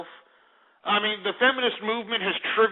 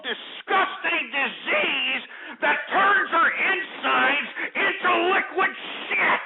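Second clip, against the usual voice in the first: rising angry plea; 5 semitones higher, slower than usual. Acted. Curse prayer builds to outburst.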